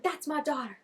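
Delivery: imitating a thrilled dad; Ryan. Ryan excited for his daughter, voiced with mild excitement. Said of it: "look how excited Ryan is".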